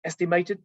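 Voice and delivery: "estimated" set apart by a pause for emphasis; single out the word "estimated"; pointed, separate "estimated"; stress on estimated. Real, not acted. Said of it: "stress the, the word".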